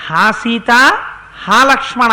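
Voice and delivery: a mock anguished call, rising; half-acted dying cry for help; loud cry. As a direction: cry out the two names. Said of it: "అని తన కంఠంతో అరిచాడు".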